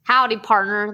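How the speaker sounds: a hint of a folksy hillbilly greeting; hillbilly accent. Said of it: "my hillbilly accent".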